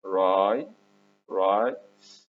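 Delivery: "راي، رايس" built up slowly in two steps; sounding out rice. Shown as a demonstration. Teacher building the word from R, "راي" then "رايس" drawn out. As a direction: stretch "راي", pause, then add the final "s" in "رايس". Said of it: "هنا بنقول الآر تبقى ر".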